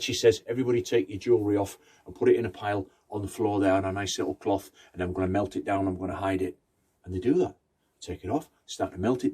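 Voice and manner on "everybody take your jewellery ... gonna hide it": brisk grandma. Acted. Grandma taking charge quickly.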